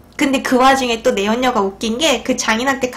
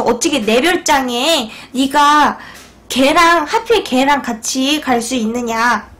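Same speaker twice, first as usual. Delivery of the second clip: a slow, heavy mock rebuke, rising hard on 걔랑; slow furious demand; slower than usual. Wife on the phone berating her cheating husband, slow and heavy. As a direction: spell out each word of the accusation, slowly. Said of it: "다짜고짜 막 화를 내요".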